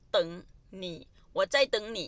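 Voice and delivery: slow, clear model sentence. Shown as a demonstration. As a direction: say it slowly so students follow. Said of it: "slow model of phrase". (พูดช้าๆ ชัดๆ ให้นักเรียนตาม)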